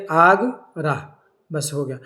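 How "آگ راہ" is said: آگ, pause, راہ as an open ra; word split up. Shown as a demonstration. Teacher showing the vowel before silent he, word split up. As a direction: break it into آگ and راہ, ending on the vowel. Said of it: "اسی کو ظاہر کر دیا".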